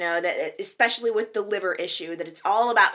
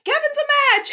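even higher, loud triumphant shout, falling at the end; excited cheer; 9 dB louder than usual. Retold or imitated. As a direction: announce it like the best news ever. Nurses celebrate Kevin as donor.

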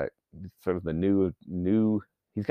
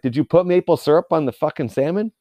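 loud, higher indignant challenge; mock outrage; 6 semitones higher, 8 dB louder than usual. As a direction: challenge the waiter in hammed-up outrage. Acted challenge to the waiter.

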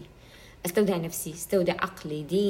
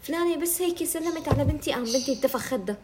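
mock gossiping woman; 6 semitones higher than usual. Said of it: "أنا كتير نماذج شايفتهم".

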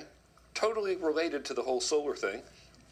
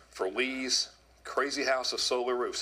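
ordinary talk

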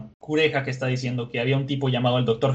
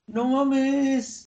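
real high-pitched, laughing exclamation; amazed squeal through laughter; laughing disbelief; 12 semitones higher than usual. Real, not acted. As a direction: laugh it out, astonished.

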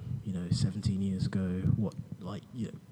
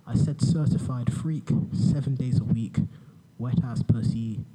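boring voice parody. Pretend. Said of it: "in my boring voice".

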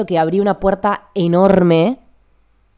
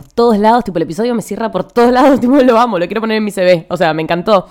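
excited; 5 semitones higher, 4 dB louder than usual. Real, not acted. Gushing about her episode.

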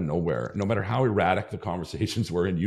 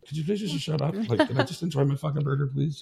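higher, mock-exasperated plea; exasperated pleading; 8 semitones higher than usual. To his mom in the car over the burger, mock exasperated. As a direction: beg her to stop talking, half joking. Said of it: "I just, like".

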